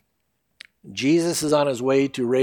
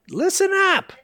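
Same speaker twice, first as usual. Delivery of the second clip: firm wake-up call. Retold or imitated. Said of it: "it's like".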